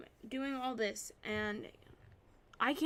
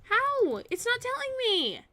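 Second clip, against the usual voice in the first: higher, louder angry outburst; raging; 5 semitones higher, 7 dB louder than usual. Real, not acted. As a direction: yell at the stuck program. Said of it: "I was raging a little bit there".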